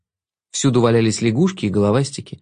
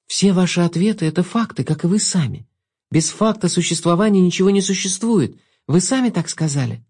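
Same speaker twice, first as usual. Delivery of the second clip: put-on girl voice; 6 semitones higher than usual. Girl's voice in story.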